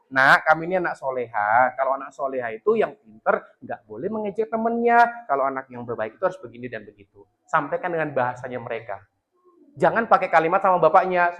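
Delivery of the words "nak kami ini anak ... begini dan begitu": soft coaxing to a daughter; quiet patient parent; gentle advice. Shown as a demonstration. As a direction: ease the child in with kind words. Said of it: "kata-kata pendukung sampaikan dulu".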